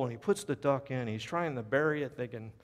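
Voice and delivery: ordinary delivery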